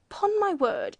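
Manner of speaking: loud, high-pitched astonished outburst; ejaculated. A narrator's reading. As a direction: burst out, thoroughly affronted. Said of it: "ejaculated the judge".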